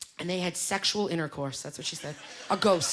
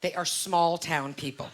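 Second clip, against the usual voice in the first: "small town people" slow, low and deliberate; pointed euphemism; 4 semitones lower, slower than usual. Acted. Repeats the euphemism with emphasis.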